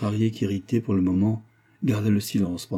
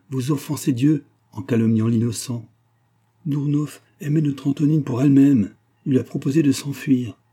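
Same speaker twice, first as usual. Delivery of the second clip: grave nanny rebuking, raised pitch; stern old nanny; 5 semitones higher, 5 dB louder than usual. Acted. Old servant defending Dournoff to her mistress, stern. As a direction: reprove her firmly, voice lifted.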